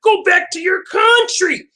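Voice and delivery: lightly voiced angry woman, rising on country; mock racist rant. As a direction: quote her with mock chest-out venom. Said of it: "She said that shit with her chest".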